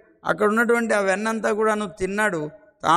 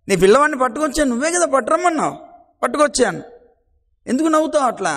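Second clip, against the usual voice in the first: high, louder, fast complaint; indignant protest; 4 semitones higher, 4 dB louder, faster than usual. Acted. Gopika protests to the laughing Yashoda, high indignant. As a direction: fire it back, hurt and indignant.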